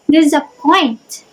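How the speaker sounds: slow "disappoint", stress on the last syllable; "disappoint" with two light syllables, then a stressed one; anapestic stress. Shown as a demonstration. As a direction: say "disappoint" slowly, leaning on the final syllable. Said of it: "two unstressed and followed by stress".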